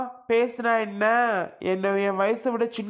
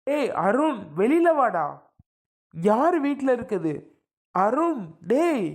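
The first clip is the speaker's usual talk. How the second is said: angry shouting. Acted. Angry relative yelling for Arun outside the house. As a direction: demand he come out, voice raised. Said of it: "ஏப்பா அப்படி சத்தம் போடுற?".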